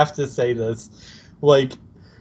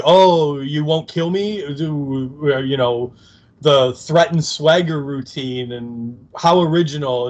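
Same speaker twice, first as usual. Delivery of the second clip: Spike's mini tirade; 2 semitones higher than usual. Retold or imitated. Fan retelling Spike mocking Buffy's threat, mild sarcasm. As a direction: sneer it, mildly mocking. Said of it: "mini tirade".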